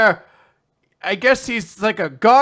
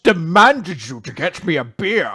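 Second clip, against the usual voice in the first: put-on fast grumpy old man; 2 semitones lower, 4 dB louder than usual. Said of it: "He's like".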